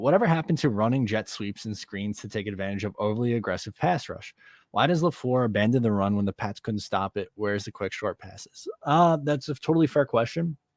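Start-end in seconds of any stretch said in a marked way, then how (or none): none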